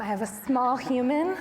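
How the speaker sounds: lungs squeezed, breathless; being squeezed hard. Real, not acted. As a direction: talk with little air left. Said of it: "squishing my lungs".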